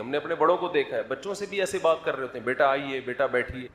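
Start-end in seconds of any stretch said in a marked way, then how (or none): 2.5-3.7 put-on soft, polite invitation to a child; mildly tender, respectful parent. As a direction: speak to the child with gentle courtesy. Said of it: "بچوں سے بھی عزت سے بات".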